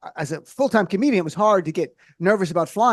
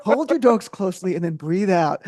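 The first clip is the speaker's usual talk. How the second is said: slow soothing mock guided meditation; a rapper's meditation. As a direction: lull them like a relaxation tape. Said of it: "You know".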